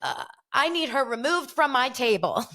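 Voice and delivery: hammed-up British indignation; mock British accent. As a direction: imitate a British hostess making a demand. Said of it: "like, a British accent".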